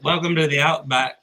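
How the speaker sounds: shaky attempt at an Australian accent; put-on Australian. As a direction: play an Australian host, accent slipping. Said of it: "you do the Australian".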